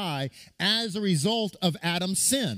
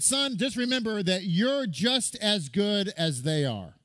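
fatherly advice; 3 semitones higher than usual. Retold or imitated. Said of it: "he said".

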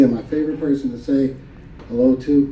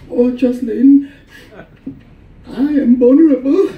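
put-on Filipino mom accent; 10 semitones higher, 6 dB louder than usual. Crying Filipino mom telling her daughter how she feels, in a Filipino accent. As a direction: stretch it out in a Filipino mom's accent, pitched up and dramatic. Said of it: "the beautiful accent".

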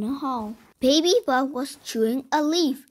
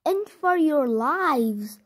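crying out; 2 semitones higher, slower than usual. Acted. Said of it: "so he cried".

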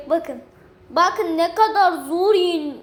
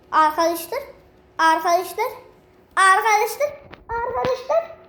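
each call rising higher and louder; building sing-song call; 5 semitones higher, 3 dB louder than usual. Acted. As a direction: call the viewers, climbing each time. Repeated calls to viewers. (gittikçe yükselen şarkımsı seslenme)

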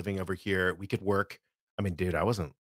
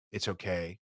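soft, low Scottish reassurance; a light Scottish "It's okay"; Scottish accent; 3 semitones lower, 7 dB quieter than usual. Retold or imitated. Reassuring the nervous newcomer, a light Scottish accent. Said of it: "a Scottish dialect lesson".

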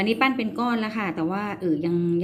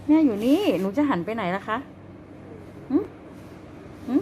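calling a pet; 6 semitones higher than usual. Real, not acted. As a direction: call the bunny in a squeal. Calling rabbit high. (เรียกสัตว์เลี้ยงเสียงแหลม)

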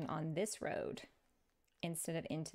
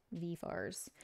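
VENEERS as "V fars" in attempted Australian; badly faked Australian pronunciation, "V fars"; attempted Australian accent; 5 dB quieter than usual. Shown as a demonstration. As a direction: try an Australian "V fars", unsure of it. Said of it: "not saying it with the right accent".

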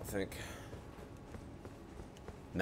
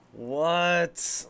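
louder, higher indignant outburst; indignant what; 6 semitones higher, 5 dB louder than usual. Real, not acted. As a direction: blurt it out in disbelief. Streamer reacts to lost record.

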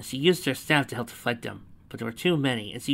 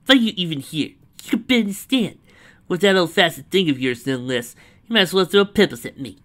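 higher, louder, needling character voice; scornful taunt; 6 semitones higher, 7 dB louder than usual. A narrator's reading. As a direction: belittle a weaker opponent out loud. Rival taunts a struggling archer in story.

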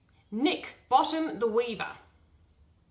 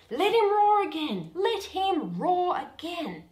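higher, grand ducal call; hammed-up Duke; 6 semitones higher, 3 dB louder than usual. Bottom imitates the Duke demanding his roar again. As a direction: boom it out as the Duke would. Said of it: "make the Duke say".

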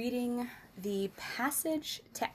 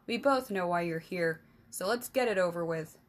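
curt king; 3 semitones lower, faster than usual. Acted. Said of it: "the king snapped".

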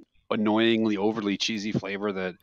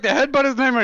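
mock cabbie yell; 12 semitones higher, 5 dB louder than usual. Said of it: "He's like".

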